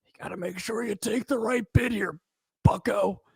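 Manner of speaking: lightly voiced corny dad, high; a hint of a cheesy dad giving advice; agent impression. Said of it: "he doesn't even talk like that".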